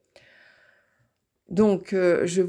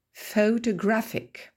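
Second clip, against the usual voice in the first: "Photographic" stressed on GRAPH, higher and slow; stress on third syllable; 4 semitones higher, slower than usual. Shown as a demonstration. Teacher showing word family, "Photographic" stressed on third syllable. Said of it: "l'accent tonique bouge".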